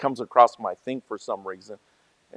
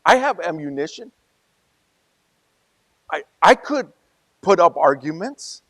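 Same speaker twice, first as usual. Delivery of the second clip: imitating Sergio; 4 semitones higher, 4 dB louder than usual. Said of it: "he kinda made like".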